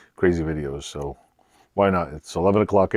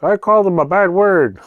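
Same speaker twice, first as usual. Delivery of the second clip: put-on high, loud kid voice; imitated little sister; 12 semitones higher, 7 dB louder than usual. Retelling the sister's answer about the cat, high loud kid voice. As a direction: exclaim it like a small child. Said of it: "And she's like".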